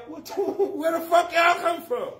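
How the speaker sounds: high, laughing where did y'all come from; cracking up in disbelief. Retold or imitated. Comic to his audience, laughing in disbelief.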